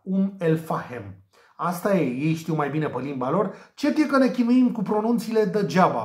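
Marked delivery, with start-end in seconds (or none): 0.0-1.2 slow "Umm el Fahem", h sounded in "Fahem"; native pronunciation. Shown as a demonstration. Tipster approximates the natives' way for viewers, "Fahem" in two slow syllables. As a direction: draw out "Umm el Fahem" with a falling end. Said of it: "Ceva de genul ăsta".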